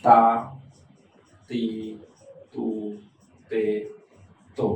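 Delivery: ta, ti, tu, te, to, each sounded out on its own with a pause after it; teacher sounding out kana; syllables read out slowly one by one. Shown as a demonstration. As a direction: spell out the row like a teacher. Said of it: "তা লাইনে হওয়ার কথা ছিল".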